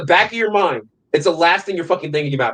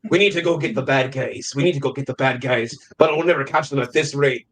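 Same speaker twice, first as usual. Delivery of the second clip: loose, unconvincing actor impression with a British tinge; half-hearted action-star imitation; Liam Neeson; 3 semitones lower, faster than usual. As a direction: do a rough take on a movie hero's voice. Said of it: "what Liam Neeson sounds like to me".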